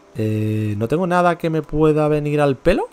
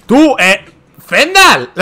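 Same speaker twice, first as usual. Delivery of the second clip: calling out; 6 semitones higher, 8 dB louder, much slower than usual. Real, not acted. Calling out to companion.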